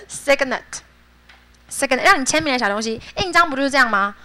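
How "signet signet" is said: "Signet" drawn out slowly; slow model reading. Shown as a demonstration. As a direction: drill it very slowly. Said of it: "teacher modeling word". (慢速示范 Signet)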